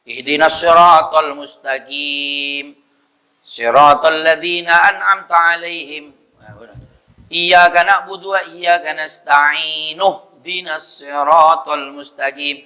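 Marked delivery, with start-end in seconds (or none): 0.0-6.1 measured Quranic recitation, verse by verse; steady chant-like Arabic recitation; joined recitation demo. Shown as a demonstration. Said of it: "kalau disambung". 7.3-12.6 connected recitation, no break before "Ihdinas"; verses joined. Shown as a demonstration. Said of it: "kalau disambung".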